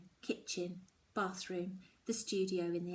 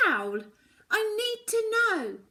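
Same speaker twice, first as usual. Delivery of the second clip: pleading mother; 13 semitones higher, 9 dB louder than usual. Acted. Mum pleading.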